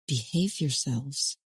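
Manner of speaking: low, slow, firm murmur. A narrator's reading. Mother to her grown sons, a firm murmur. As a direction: quietly warn them to behave. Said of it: "in a firm tone of voice".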